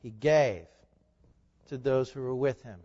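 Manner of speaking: GAVE hit harder, then a pause; stress on GAVE. Real, not acted. Preacher underscoring for the congregation, stress on GAVE. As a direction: punch "gave", pause, finish low. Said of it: "Underscore that".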